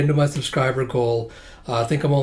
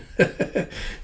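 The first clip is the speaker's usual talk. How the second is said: light, soft giggle; 6 semitones higher, 5 dB quieter than usual. Acted. Wife giggling as she walks away, soft giggle. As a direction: titter under your breath. Mimics wife's hee hee.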